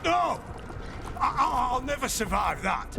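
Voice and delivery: frightened plea that starts high; panicked protest. Acted. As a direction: protest in alarm, stumbling over the first words. Condemned man protests his sentence.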